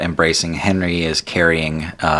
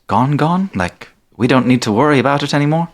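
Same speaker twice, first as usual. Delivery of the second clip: Tandy voice; 8 semitones higher than usual. Acted. Tandy double-checks.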